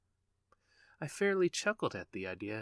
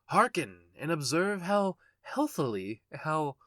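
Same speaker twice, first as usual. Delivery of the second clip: high, loud urgent call to attention; loud command; 5 semitones higher, 8 dB louder than usual. A narrator's reading. Madman demanding the reader listen, loud and high. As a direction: seize the listener's ear.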